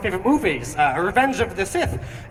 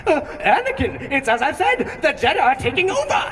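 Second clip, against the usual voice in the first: Palpatine impression; 7 semitones higher, 3 dB louder than usual. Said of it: "he's like".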